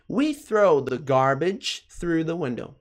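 careful, drawn-out English for learners; slow model sentence. Shown as a demonstration. Teacher modelling a sentence for learners, slow and careful. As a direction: model it slowly, word by word.

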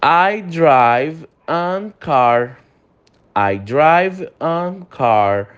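very slow drill of "an car"; slow wrong example. Shown as a demonstration. Teacher reading the wrong sentence slowly for students. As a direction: read the mistake very slowly. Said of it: "Tá errado também".

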